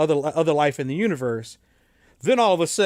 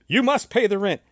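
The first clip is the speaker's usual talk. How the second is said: mustache twirling villain; 4 semitones higher than usual. Acted. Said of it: "old black and white serials".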